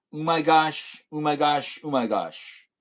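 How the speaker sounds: "Oh my gosh" chanted as "ooh my gosh"; prayer-like repetition. Shown as a demonstration. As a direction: repeat "oh my gosh" with OO, falling last. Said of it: "sounds like something that you'd say".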